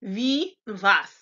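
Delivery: wie was begun with V sounds; German W as V. Shown as a demonstration. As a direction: say wie was as 'vee, vahs'. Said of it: "pronounced like the V in Victor".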